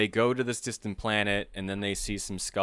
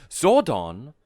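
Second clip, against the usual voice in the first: surprised question; 6 semitones higher, 10 dB louder than usual. Retold or imitated. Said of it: "and she's like".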